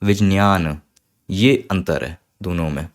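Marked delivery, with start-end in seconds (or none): 0.0-0.8 विज्ञान said vidnyan, a light j then a strong ny; विज्ञान with a little j, mostly ny; Sanskrit vidnyan. Shown as a demonstration. Teacher models the Sanskrit vidnyan. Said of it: "थोड़ा सा जा बोलने में और ज़्यादा न्या".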